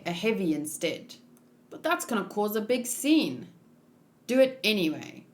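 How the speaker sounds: lightly acted anime character voices, each figure a bit different; voiced manga characters. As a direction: read the panel dialogue as the characters, lightly voiced.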